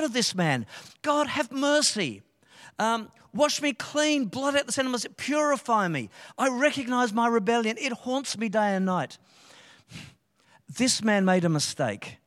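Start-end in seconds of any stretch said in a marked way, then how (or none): 1.0-9.2 David pleading for mercy. Acted. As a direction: beg God for mercy as David. Voices David's plea.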